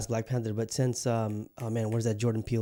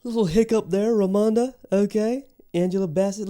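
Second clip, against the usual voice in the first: laughing; 9 semitones higher, 5 dB louder than usual. Real, not acted. Laughing off name slip.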